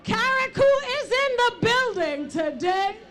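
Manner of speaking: rally speech. Real, not acted. MC rallies crowd, introduces singer.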